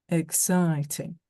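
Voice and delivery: slow, daft imitation of a soft Yorkshire accent; posh boy mocking a soft Yorkshire accent. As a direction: tease her by parroting her Yorkshire vowels, slowly. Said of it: "her soft Yorkshire accent, trying to make her sound daft".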